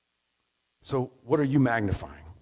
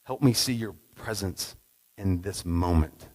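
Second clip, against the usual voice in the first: quiet prayer; 4 semitones lower, slower than usual. Shown as a demonstration. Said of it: "Just a simple prayer".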